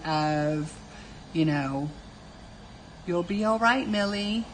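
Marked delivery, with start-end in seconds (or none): 3.1-4.4 higher, patronizing little lilt; mock condescending. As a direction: soothe them as if they were small. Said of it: "in a total condescending voice".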